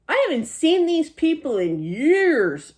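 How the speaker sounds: lifted, playful quote leaning on years; funny emphasis on years. Retold or imitated. Medium quoting a spirit with amused stress on years. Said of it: "the way she said years was funny".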